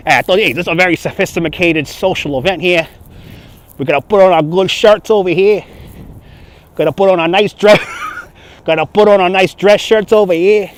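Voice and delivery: lightly put-on New York accent; comic New York wise-guy accent. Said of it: "You love my accents".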